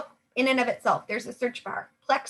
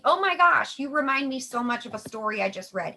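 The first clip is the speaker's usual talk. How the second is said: excited gush; 2 semitones higher than usual. Shown as a demonstration. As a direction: sound thrilled to share a story. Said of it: "how do you tee up sending a testimony".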